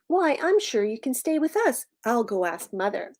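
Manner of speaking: lightly voiced eager boy, starting high; sympathetic Timothy. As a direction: offer help like a kind child. Timothy offers dragon a home.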